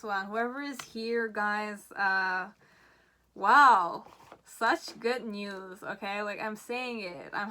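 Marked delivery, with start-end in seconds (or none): 3.3-4.0 excited wow. Real, not acted. Tarot card reveal, loud gasp.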